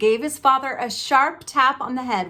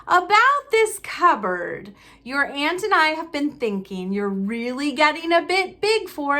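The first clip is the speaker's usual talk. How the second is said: higher, strained fake-nice tone; forced friendliness; 5 semitones higher than usual. Uncle faking kindness to Harry, strained and higher. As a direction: sound pleasant through clenched effort. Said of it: "forced his face into a smile".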